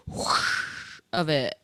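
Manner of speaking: silly drawn-out sound effect voice; whooshing pee sound. Pretend. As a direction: draw it out like a gushing stream. Mimicking loud pee sound.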